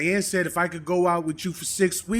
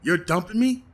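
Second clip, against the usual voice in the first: indignant protest; 7 dB louder than usual. Acted. Dumped boyfriend protests.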